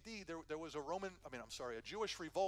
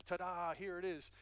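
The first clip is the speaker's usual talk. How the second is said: slow, louder showman's ta-da; mock ta-da reveal; 5 dB louder than usual. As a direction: pull the sheet off with a flourish. Unveiling a statue, mock reveal.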